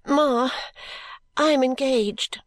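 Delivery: high-pitched, slow tearful confession; acted tearful daughter, pitched high; crying heartily. A narrator's reading. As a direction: blurt it to mother through tears. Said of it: "crying heartily".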